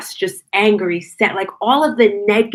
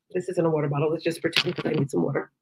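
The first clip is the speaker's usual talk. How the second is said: quiet aside; 3 semitones lower, 9 dB quieter, faster than usual. Real, not acted. Aside about her water bottle.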